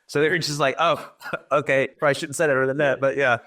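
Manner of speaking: high-pitched, amused laugh running through the words; laughing while telling. Real, not acted. Soldier recalls his blunt radio reply to the team, laughing.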